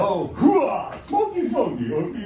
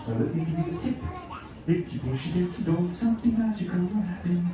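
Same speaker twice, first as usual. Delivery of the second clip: imitating a guest; 4 semitones higher than usual. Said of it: "you may say to yourself".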